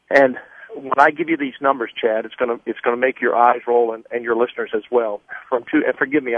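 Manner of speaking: winded, talking between breaths; breathless from running to the gate. Real, not acted. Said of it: "I'm a little out of breath".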